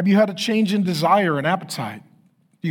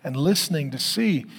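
calm, measured pastoral prayer; closing prayer. Acted. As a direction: pray over the congregation steadily.

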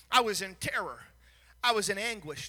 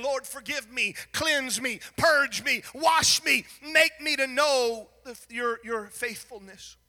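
building plea; 4 dB louder, slower than usual. Acted. David begging God to cleanse him, rising to a shout. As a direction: build the cry word by word.

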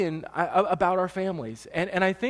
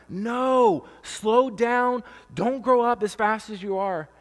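higher mock plea; pleading parent; 4 semitones higher, slower than usual. Father to his growing kids, mock pleading. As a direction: beg the kids to stay small. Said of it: "I'm like".

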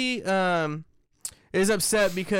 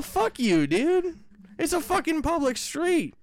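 high, half-laughing curse; laughing swearing tirade; 8 semitones higher, slower than usual. Real, not acted. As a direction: curse at them through a laugh. Ranting with laugh.

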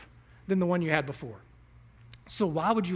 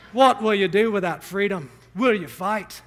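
louder rallying call, a hint of a battle cry; mock Braveheart war speech; rousing movie speech; 6 dB louder than usual. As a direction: rouse the troops like Braveheart. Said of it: "we love the movie Braveheart".

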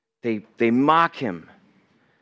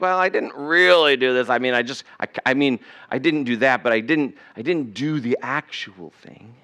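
mock excuse-making; 3 semitones lower than usual. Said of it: "Tried to justify a lie and be like".

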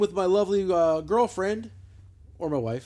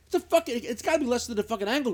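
indignant; 5 semitones higher, 4 dB louder than usual. Real, not acted. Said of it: "That's not the price?".

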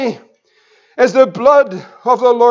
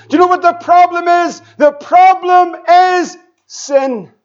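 forceful preaching; 2 semitones higher than usual. Acted. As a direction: hammer each question, then stretch out the answer.

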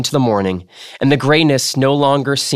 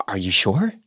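hushed; 3 semitones lower, 5 dB quieter than usual. A narrator's reading. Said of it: "he heard his voice ask".

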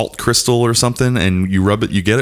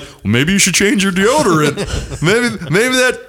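sarcastic retort; 6 semitones higher than usual. Retold or imitated. Retold sarcastic retort to wife.

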